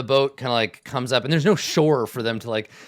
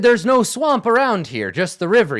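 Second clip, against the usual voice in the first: scornful retort; 7 semitones higher, 7 dB louder than usual. Acted. NPC mocks his guards.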